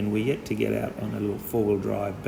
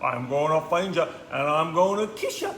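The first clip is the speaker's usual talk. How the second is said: lightly voiced playful mouse; a hint of a teasing boy mouse; little boy mouse; 5 semitones higher than usual. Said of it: "little boy mouse goes".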